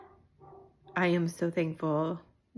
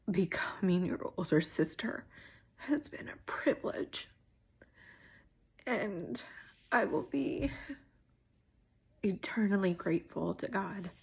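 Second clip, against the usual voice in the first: grateful words barely getting out; holding back tears; 3 dB quieter than usual. Real, not acted. Older sister thanking God for her sister, tearful. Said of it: "without crying".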